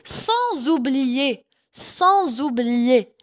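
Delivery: "sans oublier" very slowly, S linked on as a Z; slow model of "sans oublier", joined with a buzzing Z; liaison. Shown as a demonstration. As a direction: draw out "sans oublier" as "san-zoublier". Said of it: "S, ça se lie".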